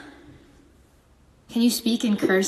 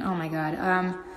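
normal talking voice

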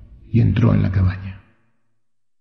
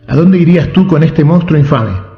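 higher, louder outraged question; outraged king; 5 semitones higher, 5 dB louder than usual. A narrator's reading. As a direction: scorn the infame monstruo. (rey indignado, más agudo y fuerte)

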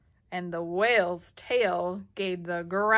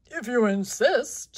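big gorilla voice; 4 semitones higher, 7 dB louder than usual. Acted.

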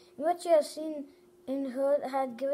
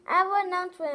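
announcement; 4 semitones higher, 5 dB louder, much faster than usual. Acted. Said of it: "announced little Miss Trouble".

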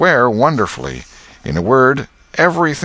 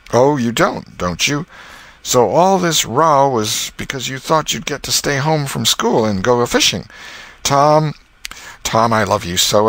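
scolding aunt; 4 semitones higher than usual. Acted.

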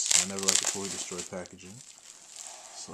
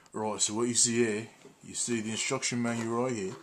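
a hammed-up British accent, a bit louder and brighter in energy; mock British accent; 3 semitones higher, 4 dB louder than usual. Vlogger showing off the manual to viewers, mock British accent. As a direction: put on a playful fake British accent. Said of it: "I think I'll do a British accent for this one".

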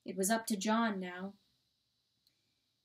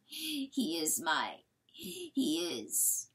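very slow, lower, falling voice; fading grief; 3 semitones lower, 3 dB quieter, much slower than usual. A narrator's reading. Coyote left talking to nobody, fading grief. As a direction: let it sink away slowly. Coyote breaks down over son.

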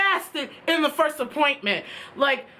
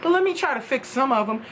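soft kind praise; 4 semitones lower than usual. Retold or imitated. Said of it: "She says".

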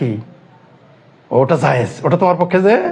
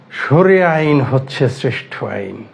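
drawn-out, slower quote of a drinker; slow mock pronouncement; 4 semitones lower, slower than usual. Quoting a bar drinker praising sharia law, slow mock pronouncement. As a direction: imitate a slow, weighty declaration.

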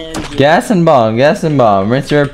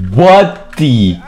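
startled yell; 3 semitones higher, slower than usual. Real, not acted. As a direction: yell out in shock at the screen. Shocked at something strange in game.

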